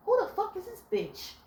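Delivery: high, hammed-up accusing shriek; mock jealous rant; mock jealous confrontation. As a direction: act out the crazy girlfriend. Woman confronting man's mother.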